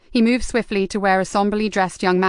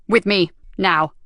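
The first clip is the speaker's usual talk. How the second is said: yelled; slower than usual. A narrator's reading. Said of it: "yelled across to Niall".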